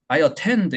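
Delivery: "I attend" with a high, full "a"; high first vowel. Shown as a demonstration. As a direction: let the high pitch spill onto "attend". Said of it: "높음이 들어가다 보니까". ("I attend"를 앞부터 높게)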